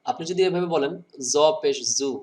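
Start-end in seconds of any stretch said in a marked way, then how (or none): 1.3-2.1 জ পেশ জু said plainly; জু not from the right place; wrong pronunciation. Shown as a demonstration. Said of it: "বেশি শুদ্ধ হয়নি". (ভুল উচ্চারণে জ পেশ জু)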